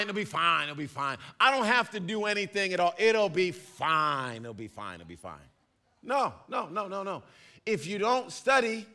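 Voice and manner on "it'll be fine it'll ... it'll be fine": put-on teen brushing off the test, fading out; mock carefree teen, fading. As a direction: let it die away to a mumble. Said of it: "Teenagers, you're like".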